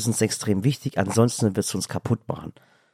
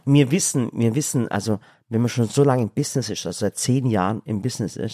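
talking with mouth full; words round a bite of food. Real, not acted. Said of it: "er redet grad mit vollem Mund".

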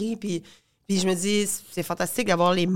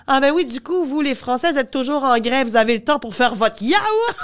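mock French accent; 3 semitones higher, 3 dB louder than usual. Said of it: "j'étais comme".

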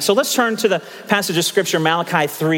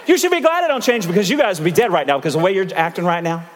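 mock God. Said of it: "This is what he's saying right there".

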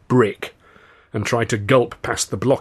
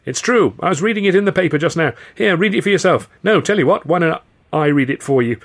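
high, loud, hurried persuasion; anxious, eager gabble; urgent insistence; 8 semitones higher, 5 dB louder than usual. A narrator's reading. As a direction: convince them before they hit you. Victim urgently convincing thugs.

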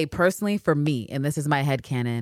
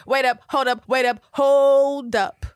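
much higher, drawn-out and louder on the repeat; startled Anne; 10 semitones higher, 5 dB louder, slower than usual. Retold or imitated. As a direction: stop her mid-thought, stunned. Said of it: "Anne's face is like".

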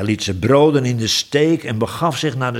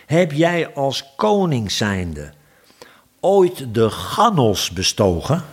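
slow, weighty, deliberate question; solemn question; slower than usual. Acted. Dirk poses his nonsense question to the king, slow and grand. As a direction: draw it out like a learned man.

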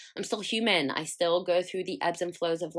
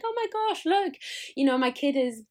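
gushing proud parent; 4 semitones higher than usual. Retold or imitated. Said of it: "sometimes people would be like".

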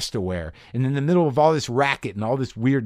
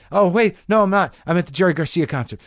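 startled correction; 7 semitones higher, 5 dB louder than usual. Retold or imitated. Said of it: "you're like".

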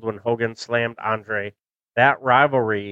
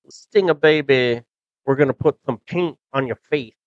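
a light, raised drawling Dusty Rhodes, admittedly done badly; Dusty Rhodes impression; 3 semitones higher than usual. Retelling the interview to fans, a lightly voiced Dusty Rhodes. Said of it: "a spot on Dusty Rhodes impersonation".

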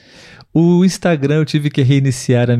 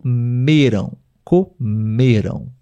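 COMERAM split as CO, then long MEram; stress on ME; slower than usual. Shown as a demonstration. Teacher showing how the past form is said, drawn-out middle stress. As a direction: separate CO and stretch ME in comeram.

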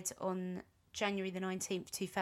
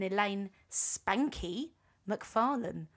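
laughing; 3 dB louder, much slower than usual. Real, not acted. Laughing while naming a singer.

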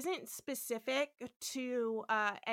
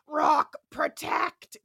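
command; 3 semitones higher, 7 dB louder, much slower than usual. Retold or imitated. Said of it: "Corby's like".

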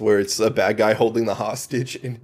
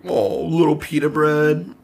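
mock cooing; 6 semitones higher, slower than usual. Cooing joke about Peeta.

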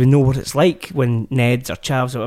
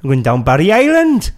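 hammed-up Welsh, laugh in it; mock Welsh accent; 2 semitones higher, 3 dB louder than usual. Podcaster playing up a failed accent for co-host, mock Welsh. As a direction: put on a singsong Welsh accent. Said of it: "You watch too much Gavin and Stacey".

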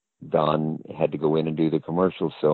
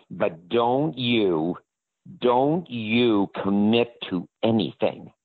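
slow warning, a hint of the agent; imitating Stark Hasseltine; 4 semitones higher, slower than usual. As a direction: drag out the don't. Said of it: "This is how he talked".

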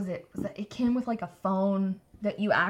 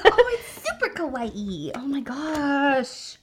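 excited anime fan; 4 semitones higher, much slower than usual. Real, not acted. Gushing over the cute game.

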